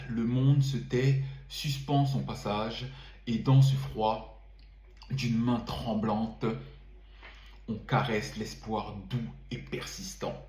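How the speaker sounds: measured, lingering poetry reading; poem recital. Acted. Poet reading his winter poem to viewers, measured and lingering. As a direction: savour each line of the verse.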